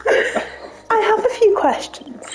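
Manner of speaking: detective voice. Pretend. Detective role, laughing.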